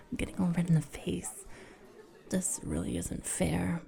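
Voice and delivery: soft flustered whisper. Real, not acted. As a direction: whisper it blushing. Whispering embarrassed.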